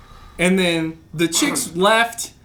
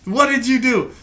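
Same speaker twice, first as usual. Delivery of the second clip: high, slow horrified yell; shocked shout; 6 semitones higher, 8 dB louder, slower than usual. Retold or imitated. Friend shouting in shock at bloody roommate. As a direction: recoil at the bloody shirt. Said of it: "I'm like".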